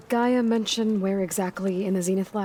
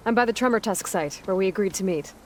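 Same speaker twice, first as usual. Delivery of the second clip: louder, higher hail over comms; raised voice calling a friend to meet; 3 semitones higher, 4 dB louder than usual. Acted. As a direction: hail him from a distance.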